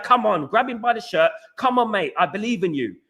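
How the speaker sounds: rallying captain. Pretend. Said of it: "It should be like".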